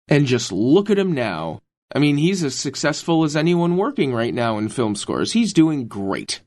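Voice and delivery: unintentionally sarcastic-sounding praise; sounds sarcastic. Real, not acted. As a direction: praise that comes across as sarcastic. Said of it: "sound like you're being sarcastic".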